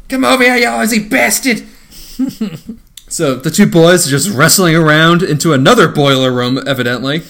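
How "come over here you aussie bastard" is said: much higher hammed-up fight taunt; mock the action hero roaring; mock Arnold yell. Acted fight movie line.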